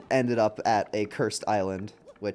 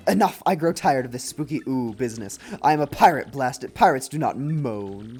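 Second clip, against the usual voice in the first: hammed-up ghost pirate captain; blustering pirate villain. Voices Cortez, ghost pirate villain.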